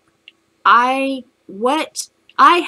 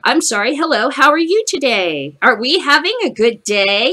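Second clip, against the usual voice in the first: mock-cheery greeting; 3 semitones higher, 4 dB louder than usual. Acted cheery intervention in hallway.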